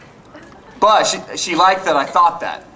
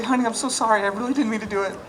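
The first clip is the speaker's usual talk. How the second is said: cowering apology; 5 semitones higher, 6 dB quieter, faster than usual. Retold or imitated. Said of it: "cower down and say".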